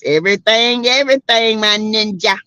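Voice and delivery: a light Cat Williams impression. Host explains it to the chat as Cat Williams, lightly voiced. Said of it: "in my Cat Williams voice".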